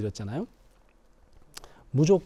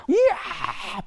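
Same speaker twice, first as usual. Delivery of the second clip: exploding; 13 semitones higher, much slower than usual. Acted. Husband explodes in anger.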